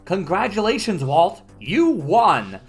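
quiz show host voice. Acted. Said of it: "host speaks".

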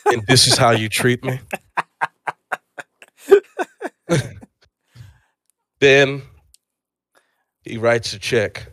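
low, measured delivery of scene and dialogue; lightly acted, solemn mock drama; mock screenplay reading. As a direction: play the scripted showdown with deliberate pauses.

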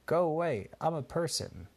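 father telling the parrot to go away, mock cross; dad shooing the parrot. A narrator's reading. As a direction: shoo the bird off, a bit cross. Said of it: "Benji's dada would say".

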